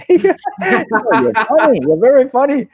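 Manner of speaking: high, loud mock Jackie Chan voice; Jackie Chan imitation. Imitating Jackie Chan to the interviewer, high and loud. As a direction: pitch it way up as Jackie laughing it off. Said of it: "he goes".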